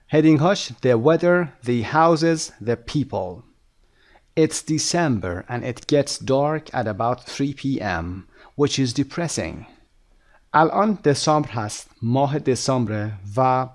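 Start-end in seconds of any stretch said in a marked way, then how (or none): 4.4-9.7 very slow, deliberate English read-aloud; measured dictation pace; slow lesson reading. Shown as a demonstration. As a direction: read it out slowly for language learners. Reads lesson text aloud.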